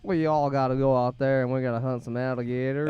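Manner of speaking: bad Southern accent. Shown as a demonstration. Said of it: "Do it. Southern accent right now".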